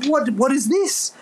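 high, slow, awed question; wondering amazement. Retold or imitated. To himself in the car, awed and slow. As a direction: marvel at a sudden new feeling. Overwhelmed by sudden feeling.

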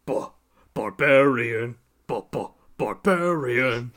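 put-on slow stammering old barbarian; toothless old man. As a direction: stutter it like a toothless elder. Mimicking toothless old Cohen.

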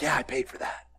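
a deep, easy, unbothered God checking in; God's voice. Retold or imitated. Pastor voices God catching a sinner, low and casual.

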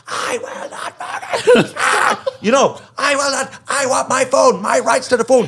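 high, laughing put-on voice of a stubborn brat; a hammed-up defiant kid refusing to budge; defiant whiny teen. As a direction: whine it through a laugh like a spoilt protester. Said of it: "He's just there".

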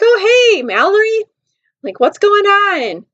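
high, drawn-out cheery hello; mock friendly greeting. Josh greeting Mallory, mock friendly greeting.

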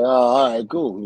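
casual, mock-unbothered acknowledgement; playing it cool. Wrestler told his idol is coming, playing it cool. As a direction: shrug it off as no big deal. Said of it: "I'm playing it off like it's nothing".

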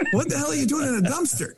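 retold disbelief. Panicked call to Todd.

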